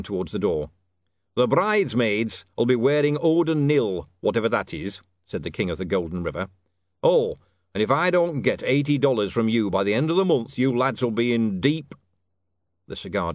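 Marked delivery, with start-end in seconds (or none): 1.3-5.0 slow, loud pronouncement; gruffly offhand king. Acted. King names the bridesmaids' colour, gruffly offhand. 7.0-11.9 forceful, louder warning; threatening king. Acted. King warns the lads about eighty dollars, threatening.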